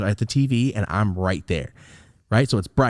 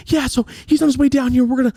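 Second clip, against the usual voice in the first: high, sing-song mock sob of mom; fake sobbing; 5 dB louder, faster than usual. Mom telling grandma about moving Thomas, fake sobbing. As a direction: wail it out, much higher and louder. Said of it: "she's fake sobbing".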